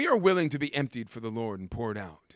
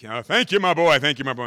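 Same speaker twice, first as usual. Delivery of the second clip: loud, higher thanks; hearty master; 4 semitones higher, 13 dB louder, faster than usual. Retold or imitated. The master thanks the servant, loud and hearty. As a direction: boom your gratitude.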